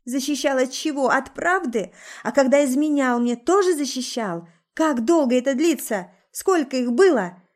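wife furiously confronting her cheating husband; furious interrogation. A narrator's reading. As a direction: demand answers in fury.

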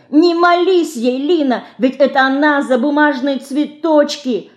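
put-on frantic child pleading; desperate little girl. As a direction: beg her to stop in despair. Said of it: "в отчаянии крикнула мышка".

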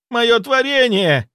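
high, loud, slow wail; wailing howl. A narrator's reading. Zaitsev wailing over his burning creature. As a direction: howl in grief as it burns. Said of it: "завопил Зайцев".

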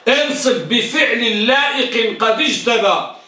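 slow repeat leaning on انصب; slow repeated recital; verse repeated. Shown as a demonstration. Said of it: "احفظوا هذا البيت".

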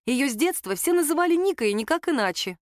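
usual speaking voice

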